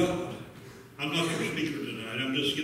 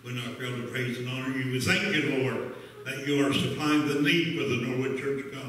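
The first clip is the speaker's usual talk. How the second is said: public prayer. Real, not acted. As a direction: pray over the offering on behalf of the church. Leads the offering prayer.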